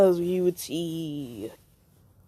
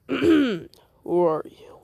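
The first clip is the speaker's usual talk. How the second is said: loud challenge; 5 semitones higher, 6 dB louder, much slower than usual. Acted. Kabuto challenges an intruder.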